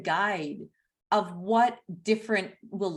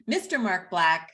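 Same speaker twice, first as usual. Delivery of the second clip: booming ring-announcer introduction. Pretend. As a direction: introduce the guest like an arena announcer. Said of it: "I'm doing the announcer voice".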